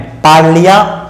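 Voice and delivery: पार्लिया with the i sounded out, paar-li-yaa; contrasted pronunciation. Shown as a demonstration. Teacher contrasts two readings, contrasted pronunciation. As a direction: set पार्लिया apart with careful syllables. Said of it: "पार्लिया में फर्क है".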